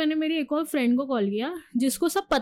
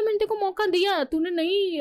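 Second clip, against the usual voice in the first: angry; 7 semitones higher than usual. Retold or imitated. Retold confrontation, raised pitch.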